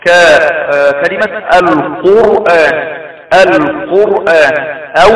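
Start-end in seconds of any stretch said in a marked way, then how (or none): 1.5-4.6 slow القرآن with a heavy, full R. Shown as a demonstration. Teacher showing ر after damma in القرآن, heavy R. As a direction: draw out القرآن, thickening the resting ر. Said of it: "ضم أو فتح".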